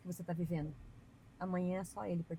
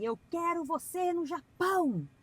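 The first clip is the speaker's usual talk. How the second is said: slow, higher, louder prophetic preacher voice; mock pulpit prophecy, drawn out and loud; preacher proclaiming; 6 semitones higher, 3 dB louder, slower than usual. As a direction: thunder it out like a pastor at the pulpit.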